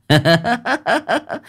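high leering laugh; lewd cackle. Acted. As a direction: cackle like a lecher. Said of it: "cười dâm tiện".

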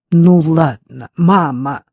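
loud, fed-up cry; exasperated outburst. A narrator's reading. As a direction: burst out in frustration. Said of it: "в сердцах воскликнула Вера".

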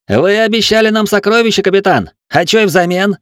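high, loud accusing exclamation; indignant outcry. A narrator's reading. Gunner confronts the captain over the treasure, indignant outcry. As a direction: throw the broken promise back at him. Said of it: "воскликнул стрелок".

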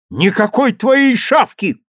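громко и выше, храбро; мальчик кричит, не отступая; мужественный крик. A narrator's reading. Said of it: "крикнул он мужественно". (смело выкрикнуть)

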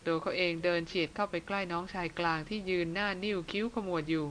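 ordinary delivery

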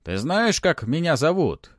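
high, loud sceptical question; distrustful. A narrator's reading. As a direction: test a doubtful claim. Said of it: "недоверчиво спросила мумия".

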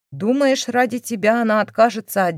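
scornful taunt. Acted. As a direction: sneer at the penniless boyfriend. Mother taunts the boyfriend.

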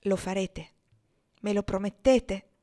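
pleading. Acted. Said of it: "Domandò con accento supplichevole".

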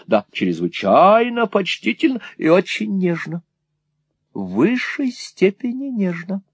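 high, swooping gush of admiration. A narrator's reading. Mother defends her admirer to her son, gushing. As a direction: savour each compliment, pitch soaring. Mother gushes about suitor's tenderness.

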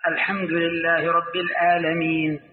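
slow recitation, "العالمين" with a glottal stop for ayn; ayn as hamza. Retold or imitated. Villager reciting Quran in home dialect, "العالمين" with hamza for ayn. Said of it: "أننا نقلب العين همزة".

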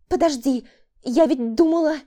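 frightened woman. A narrator's reading. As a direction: start to object in fear. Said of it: "испытывая страх". (испуганная мольба)

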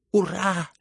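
put-on high, loud drunken hurrah; drunken hoarse cheer. A narrator's reading. A drunk cheers the prince's news, hoarse and tipsy. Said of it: "пьяным голоском прохрипел Лебедев".

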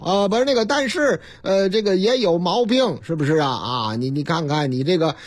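mock online doctor, hemming and hesitating; lightly acted scam doctor. Scam doctor bluffing to an online patient, hammy hesitation. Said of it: "他们都有台词， 有剧本儿".

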